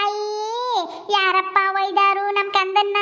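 put-on slow, drawn-out cooing to a baby; soothing baby talk. Woman hushing a crying baby, soothing coo. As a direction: croon slowly to hush the baby.

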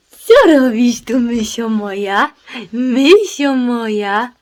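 high, slow sing-song coo. Real, not acted. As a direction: coo at the puppy lovingly. Cooing at the puppy. (czułe zdrabnianie do szczeniaka)

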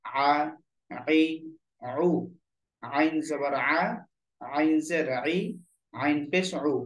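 "আইন", "আ", "আই", "উ" squeezed from the middle of the throat; mid-throat ayn. Shown as a demonstration. Teacher drilling the letter আইন for learners, voiced from mid-throat. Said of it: "কণ্ঠনালীর মধ্যখান থেকে আওয়াজটা বের হবে".

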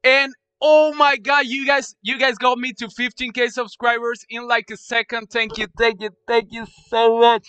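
high, loud, thrilled; excited thanks. Real, not acted. Streamer thanking chat for fifteen K, high and loud thrilled. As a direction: gush over the milestone.

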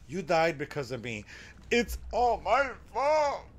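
lightly voiced sorrowful old grandma, slowing at the end; Grandma's voice. Streamer reading Grandma's guilty note in her mournful voice. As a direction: read the note as a grieving grandma, a hint of her voice. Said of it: "That's the voice she uses".

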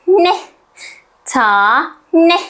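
usual speaking voice

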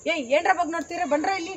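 bold challenging call. Shown as a demonstration. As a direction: call them over without fear. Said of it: "ನಾ bold ಆಗಿ".

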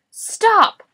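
high, loud roar; Boris. A narrator's reading. Boris halting Morris's tongue display, roaring. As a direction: roar out a sudden halt. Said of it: "Boris roared".

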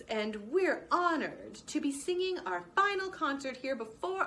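a proud singer working the crowd; bluebird singer announcing. Acted.

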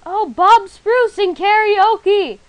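loud, high, slow proclamation; excited. Real, not acted. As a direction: announce it with delight. Excitedly naming trees.

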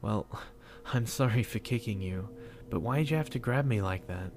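a small laugh, then a teasing question; light laugh after crying; laughing through tears. Acted. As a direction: chuckle through leftover sobs. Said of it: "A little laughter broke out through my sobs".

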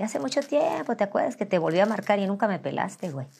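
imitating her former slangy talk; her old self. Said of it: "Así, yo hablaba así".

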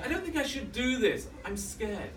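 high-pitched, acted reluctance; scared pleading. Nervous jumper to the instructor, scared pleading. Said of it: "saying to the instructor".

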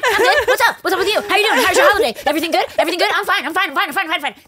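high, loud overly cheery denial; squeaky hammed-up cheerfulness; fake cheerful. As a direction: act wired and too fine. Faking fine to boss.

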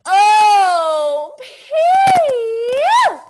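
loud high mock disgust at stink; hammed-up yuck at stinky toes; disgusted pee-yew. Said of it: "see if they stink or not".

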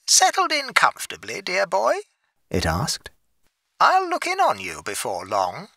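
high, sly bleating ghostly voice; sly goat man voice. A narrator's reading. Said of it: "a little goat-like laugh, just audible, and then a voice".

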